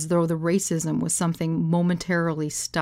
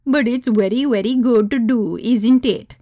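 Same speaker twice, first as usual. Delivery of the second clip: loud, higher-pitched mock Indian accent; mimicked Indian accent; 5 semitones higher, 7 dB louder than usual. Hostess copying a guest, thick Indian accent. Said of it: "in a similarly thick accent".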